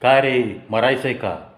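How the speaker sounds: sharp shout at a careless pedestrian; angry shout. Retold or imitated. Biker shouting at a man who stepped in front, angry shout. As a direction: bark it at the man who crossed. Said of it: "तेव्हा मी ओरडलो".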